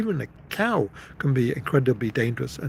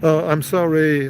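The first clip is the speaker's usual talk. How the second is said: louder, plainer imitated apology; proper apology; 3 semitones higher, 6 dB louder than usual. Boy pushed by father to apologize, proper retold sorry. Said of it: "Apologize properly".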